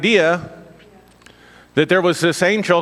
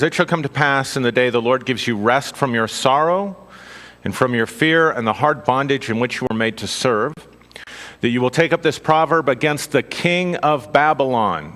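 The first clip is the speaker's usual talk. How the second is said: measured scripture reading voice; 2 semitones lower than usual. Acted. Preacher reading Isaiah to the congregation, measured reading. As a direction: read it out as holy text, steady.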